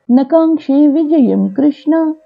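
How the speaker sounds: slow, measured Sanskrit shloka chant; verse recitation. Acted. Teacher reciting a Gita verse for learners, measured chant. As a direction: recite the verse in long, drawn-out syllables.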